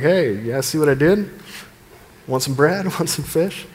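hammed-up showman handing out bread, with a laugh; playful carnival hawker tease; mock crowd-pleaser. Jesus working the crowd, lightly voiced hawker. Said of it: "It's like".

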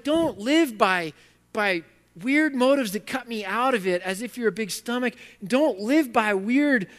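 loud, slow, forceful warning; emphatic God. Acted. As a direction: preach God's command with full force. God voiced, preaching hard.

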